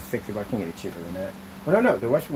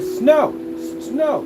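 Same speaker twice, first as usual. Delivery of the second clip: yelling a word at the voice assistant; retold yelling; 11 semitones higher, 4 dB louder, much slower than usual. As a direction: shout the word at the TV. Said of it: "I'll be sitting there screaming".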